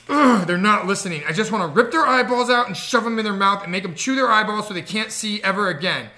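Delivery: exasperated mock-child rant, starting loud; mildly hammed-up childish fury; imitated mad little girl. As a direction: rant like a fed-up kid. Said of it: "she got mad".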